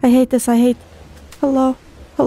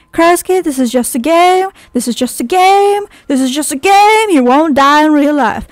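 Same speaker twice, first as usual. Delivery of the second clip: mock reassuring voice. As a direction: soothe yourself in a voice for Krusky. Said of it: "Thank you, Krusky, for the reassuring words".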